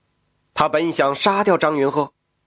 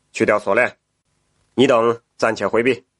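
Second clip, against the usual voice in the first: lower, measured imperial tone; emperor voice; 7 semitones lower than usual. Acted. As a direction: speak as a curious emperor. The emperor gives orders.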